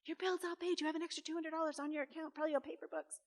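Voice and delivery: official voice. Retold or imitated. Official reading account status.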